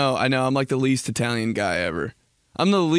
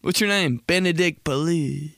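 mock Italian, last name cut short; Italian dropped endings; 3 semitones higher than usual. Italian man giving his name, mock Italian dropped endings. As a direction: imitate an Italian swallowing the surname. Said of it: "don't even say their last names".

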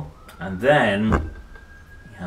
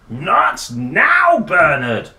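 much higher, louder brush-off; dismissive dad; 7 semitones higher, 11 dB louder, much slower than usual. A narrator's reading. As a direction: snap it out without looking up. Father bitten, brushes him off.

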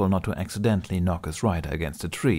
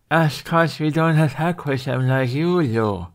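put-on higher, slower, louder boyish retort; Hiccup voice; 6 semitones higher, 5 dB louder, slower than usual. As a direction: lay out the point slowly to the dragon. Hiccup answering the dragon.

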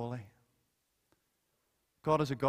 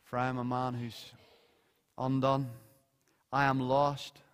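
lament; 4 semitones lower than usual. Retold or imitated. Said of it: "he goes".

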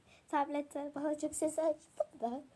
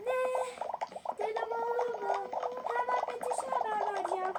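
mildly dramatic, higher voice; acted alarm; 4 semitones higher than usual. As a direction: play a touch of shock. Another take of the reaction.

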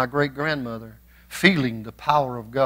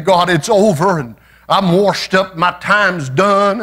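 mock whimpering prayer; 4 semitones higher, 4 dB louder, slower than usual. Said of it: "You can't be whimpering around and saying".

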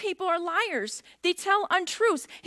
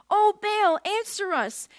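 mock cry to Baal, louder; shouted plea; 2 semitones higher, 4 dB louder, slower than usual. Prophets calling on Baal, loud plea. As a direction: call out to Baal like a desperate crowd. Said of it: "they shouted".

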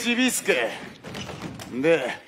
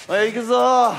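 calling out; 4 dB louder than usual. Acted. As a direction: call the play across the court. Coach calling out serve.

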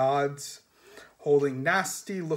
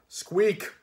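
rat squeak; 6 semitones higher, 4 dB louder than usual. Acted. Death of Rats squeaks.

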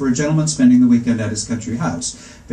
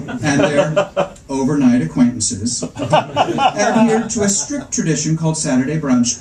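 amused, slow and laughing; 3 semitones higher than usual. Real, not acted. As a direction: let the laugh break through. Narrator amused at own joke.

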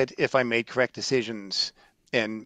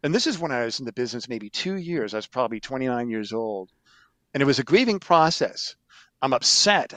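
ordinary talk

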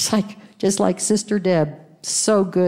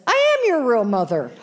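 aunt's claim, laughing; 4 semitones higher, 3 dB louder, faster than usual. Retold or imitated. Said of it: "her Auntie Sandy says".

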